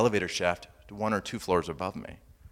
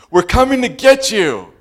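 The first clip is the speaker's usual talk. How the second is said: higher, louder call from above; yelled reply; 12 semitones higher, 14 dB louder than usual. Retold or imitated. Rescuers yelling down to trapped man, loud. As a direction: reassure from up the shaft. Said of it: "They yell back down to me".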